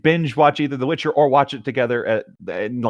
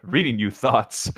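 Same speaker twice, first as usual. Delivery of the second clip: slow, laughing repeat of a typo; laughing mock misreading; 3 dB quieter, slower than usual. Real, not acted. Player laughs, mocking the misread line. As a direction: chuckle through the botched phrase. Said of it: "as if reading your thoughts".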